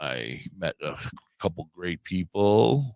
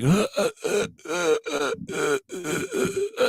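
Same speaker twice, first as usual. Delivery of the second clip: stammering =146. Retold or imitated. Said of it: "I couldn't talk".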